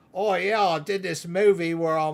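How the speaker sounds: put-on loud, easygoing Australian accent. Speaker recalls seeing an actor interviewed, imitating him in an Australian accent. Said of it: "he's got an Australian accent".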